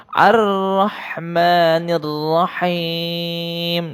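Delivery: slow chanted tilawah; Quran recitation. Shown as a demonstration. Teacher chants the verse for pupils to repeat. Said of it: "Pak Guru ulang lagi".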